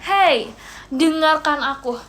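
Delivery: ordinary delivery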